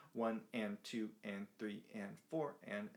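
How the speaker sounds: each syllable held evenly; even straight count. Shown as a demonstration. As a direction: count one and two and, all equal in length. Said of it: "straight eighth notes".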